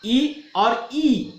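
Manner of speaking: first ई short, second ई drawn long, very slow. Shown as a demonstration. Teacher demonstrating short ई then long ई, very slow. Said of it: "छोटा वाला ई और बड़ा वाला ई".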